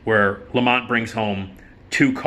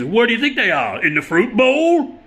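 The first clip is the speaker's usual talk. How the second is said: very high, loud, slowed sarcastic jab; sarcastic Fred; 12 semitones higher, 4 dB louder than usual. Retold or imitated. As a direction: drag out the punchline with mock scorn. Fred's sarcastic comeback.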